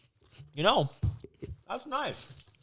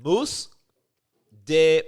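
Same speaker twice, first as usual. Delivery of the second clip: mock Portuguese; 6 dB louder, much slower than usual. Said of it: "it's almost like you're there".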